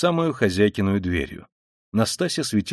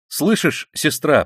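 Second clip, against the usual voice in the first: higher, urgent call; last effort; 6 semitones higher, 4 dB louder, much slower than usual. A narrator's reading. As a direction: summon strength to be heard. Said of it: "собрав последние усилия". (из последних сил, настойчиво)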